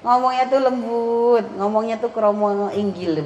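slow, lilting imitation of gentle speech; sinden-like soft speech. Teacher imitates a child's refined Javanese, slow gentle lilt. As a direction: stretch the words softly, like a sinden. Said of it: "kalau ngomong tuh kayak orang sindenan".

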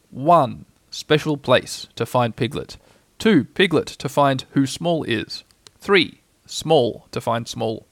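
slow, measured list reading; list-making Pooh. A narrator's reading. Pooh noting his search plan in his head, deliberate. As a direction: count off each item slowly and deliberately.

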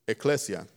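"ekklesia" said ih-KLESS-ee-uh; pronunciation demo. Shown as a demonstration. Preacher teaching the Greek word for church, pronunciation demo. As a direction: stress the second syllable of "ekklesia". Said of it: "that's how you pronounce it".

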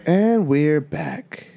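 slow, drawn-out host voice; "And we're back", announced slowly; radio host intro. Acted. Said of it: "Wait, are we back?".

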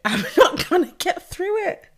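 very high, laughing through the welling emotion; emotional, near tears. Real, not acted. Podcaster failing to explain without crying, emotional. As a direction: laugh helplessly as the voice shoots up. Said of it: "why I'm getting emotional without crying".

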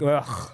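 short throaty "ugh"; mock disgusted groan. Film fan acting out reaction to art bunnies, disgusted. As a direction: groan as if put off.

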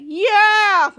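big celebratory "yeah"; triumphant yell. Retold or imitated. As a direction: imitate a victorious shout. Henry cheers as moles flee.

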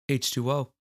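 talking right after a sip; words around a sip of water; while sipping a drink. Real, not acted. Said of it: "excuse me while I sip on a little bit of that".

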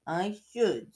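slow, drawn-out teasing; taunting Peeves. Acted. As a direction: toy with them slowly. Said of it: "said Peeves".

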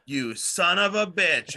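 Predator line. Retold or imitated. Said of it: "do the line from Predator".

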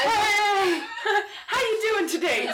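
high, cheery fake welcome; sweet greeting before the stab; mock friendly greeting. Mocking friendly greeting before stabbing.

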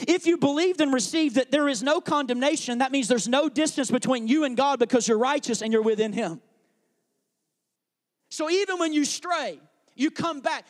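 loud, emphatic sermon delivery; full-force preaching. Acted. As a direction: drive the point home to the congregation.

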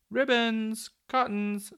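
high, loud, bursting out; excited. A narrator's reading. Popoff bursting out to the children, excited. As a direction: blurt it out with a sudden idea. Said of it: "said Popoff in excitement".

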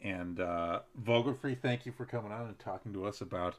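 booming announcer sign-off; radio announcer voice. Acted. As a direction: wrap up the show like a radio host. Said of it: "how's my radio announcer voice".

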